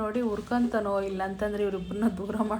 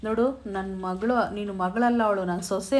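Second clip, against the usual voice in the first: scolding; 4 dB louder than usual. Retold or imitated. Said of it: "ಅಂತ ಬೈದ್ಬಿಡ್ತಾನೆ".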